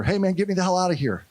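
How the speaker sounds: retold plea to be let out; little boy pleading. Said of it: "I hear a little boy's voice".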